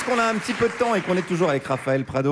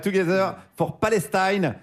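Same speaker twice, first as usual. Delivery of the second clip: Together for Palestine with a slower, slightly higher, hammed-up English accent; mock English accent, a touch slower; 4 semitones higher than usual. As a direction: show off a self-mocking English accent on Together. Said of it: "avec mon accent anglais incroyable".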